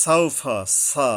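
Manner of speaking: সাউফা with a crisp hissed "s" at the start; careful sin. Shown as a demonstration. Teacher warns about sin, সাউফা carefully pronounced. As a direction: articulate the s of সাউফা and সা distinctly. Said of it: "সিন উচ্চারণে সাবধান হতে হবে".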